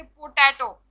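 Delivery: पोटैटो with the stress on टै; stress on second syllable. Shown as a demonstration. Teacher demonstrating word stress to students, पोटैटो stressed on टै. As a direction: lean on the middle syllable of पोटैटो. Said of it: "second syllable पे stress डाला".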